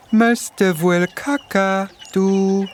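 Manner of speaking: a lightly voiced mother, spelling it out slowly; mother to cockatoo. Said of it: "seng Mam sieht für dich zum klenge Kakadu".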